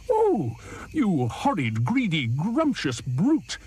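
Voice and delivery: high, slow, indignant hippo; hippo's cry. Acted. Hippo cries out at the crocodile, high and indignant. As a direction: scold him in high indignation. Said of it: "cried Humpy Rumpy".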